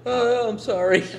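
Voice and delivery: high, loud apology through a laugh. Retold or imitated. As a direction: say sorry while laughing. Retelling his own apology.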